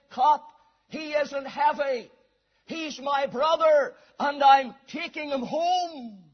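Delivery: loud, slow, a hint of a Cockney lad standing firm; lightly voiced Cockney lad, loud and steady. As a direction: call it up to the policeman, slowly and proudly. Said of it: "in his Cockney way".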